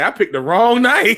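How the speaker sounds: loud, drawn-out comic regret; laughing mock lament. Latecomer joking about a bad night to join, laughing mock lament.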